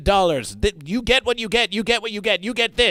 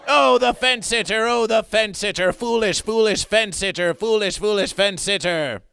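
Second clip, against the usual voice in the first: mocking taunt; 2 semitones higher than usual. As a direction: tease the foolish fence sitter. Mocking the hesitant buyer.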